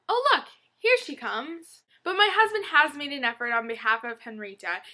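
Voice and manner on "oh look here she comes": delighted. Retold or imitated. Cat arriving on call.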